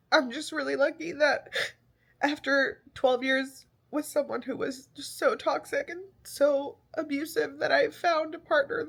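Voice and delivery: tearful, voice wavering; holding back real tears; crying. Real, not acted. Tearful talk about abusive past.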